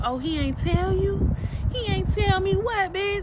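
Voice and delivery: loud, high-pitched retelling of a confrontation; mock incredulous. Storyteller replaying the other woman's pregnancy reveal, loud and incredulous.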